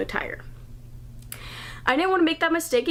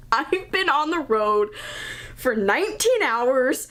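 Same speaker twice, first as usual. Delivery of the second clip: drawn-out, desperate road-weary plea; frantic plea; slower than usual. Retold or imitated. Worn-out driver begging the tire guy, half-crazed plea. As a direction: beg for help like you're at the end of your rope. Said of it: "I'm sure once he heard me talk, he was like, "This girl is crazy".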